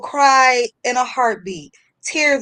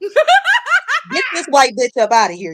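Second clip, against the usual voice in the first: laughing; 4 semitones higher, slower than usual. Real, not acted. Laughing retelling lady removed.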